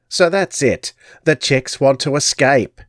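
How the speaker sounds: high crone voice, gloating; gypsy crone. Acted. Crone finding the cut net, triumphant. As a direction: pounce on the discovery. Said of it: "she cackled".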